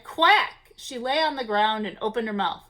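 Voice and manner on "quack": mild quack; a light quack; cow quacking. A narrator's reading.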